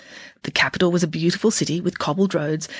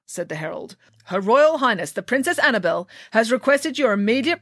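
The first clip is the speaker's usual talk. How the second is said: formal, raised herald voice; pompous herald; 3 semitones higher than usual. Acted. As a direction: proclaim it like a royal herald.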